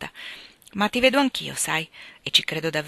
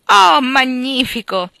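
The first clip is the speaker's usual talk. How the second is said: much higher and louder, slow delighted cry; excited exclamation; 7 semitones higher, 12 dB louder, much slower than usual. Acted. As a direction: burst out with joy at the news. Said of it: "esclamò Joe". (esclamazione entusiasta, molto più alta e forte)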